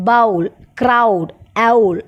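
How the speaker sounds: ബൗൾ, ക്രൗഡ്, ഔൾ slowly with a full "ow" glide; slow, separated drill of ബൗൾ and ഔൾ showing the "ow" diphthong; example words for ഔ. Shown as a demonstration. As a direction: draw out the "ow" in ക്രൗഡ്. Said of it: "ഔ എന്ന് പറയുന്ന sound വരുന്നത്".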